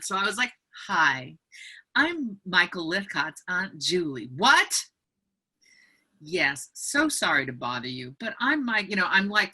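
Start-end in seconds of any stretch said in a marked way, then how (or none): 0.9-4.3 placating politeness. Retold or imitated. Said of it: "talking like this to just". 4.3-4.7 a high, loud, hostile "What?"; startled what. Retold or imitated. Suspicious homeowner reacting to a stranger, startled and hostile. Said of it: "she went from". 6.2-8.9 placating politeness. Retold or imitated. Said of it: "talking like this to just".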